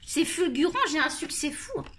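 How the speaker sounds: mock boasting with a laugh; pour rigoler. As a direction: joke about yourself, laughing. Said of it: "Je rigole". (fausse vantardise en riant)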